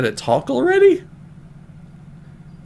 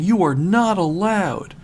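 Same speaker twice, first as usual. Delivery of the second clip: higher, firm mock fury on every word; mock angry ban; 6 semitones higher, 3 dB louder than usual. Knuckles forbids S B O from Rouge, mild mock anger. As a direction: lay down the law, lightly hammed-up. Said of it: "sent Knuckles into the next level of his anger".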